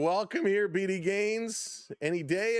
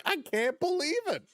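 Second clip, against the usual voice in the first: imitating Springer; 9 semitones higher than usual. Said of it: "Springer's like".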